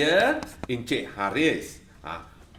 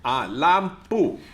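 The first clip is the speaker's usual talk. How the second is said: slow teaching; slower than usual. Shown as a demonstration. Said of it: "semua dengar baik-baik".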